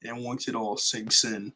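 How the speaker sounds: slow, measured recital of a menacing speech; slow, ominous villain speech read from memory; dramatic villain monologue. Pretend. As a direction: deliver it like a ruthless tycoon addressing his city. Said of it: "I'm gonna try to say it here".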